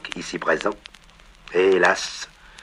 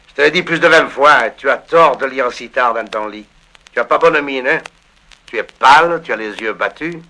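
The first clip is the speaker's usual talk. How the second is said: César scolding; 6 semitones higher than usual. Acted. Father as César scolding Marius for reading late. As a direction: scold your son with worried affection.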